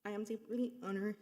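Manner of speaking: holding back tears while speaking; emotional voice. Real, not acted. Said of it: "Sorry, I'm emotional".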